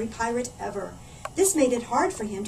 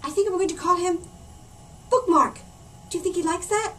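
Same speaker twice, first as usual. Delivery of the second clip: excited; 8 semitones higher, 6 dB louder than usual. Acted. Reader excitedly names the puppet frog.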